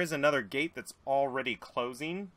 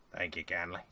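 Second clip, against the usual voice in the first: redneck crewman; 6 semitones lower, 7 dB quieter than usual. Acted.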